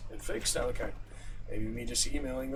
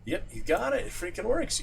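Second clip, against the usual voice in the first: excited; 9 semitones higher, 5 dB louder than usual. Real, not acted. Cheering that it works.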